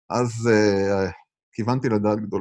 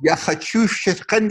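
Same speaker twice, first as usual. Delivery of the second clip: put-on Russian accent; 6 semitones higher, slower than usual. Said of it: "חיקוי של רוסי".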